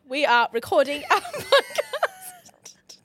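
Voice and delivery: a British try that slips into Irish; mock accent sliding Irish; accidental Irish. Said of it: "I swear you just went Irish".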